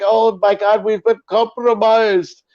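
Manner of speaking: high, slow mock panic. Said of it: "they were just like".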